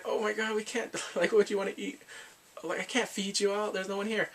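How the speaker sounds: mild mock panic. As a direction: act out a slightly panicked hostess. Retells woman overwhelmed by unexpected guests.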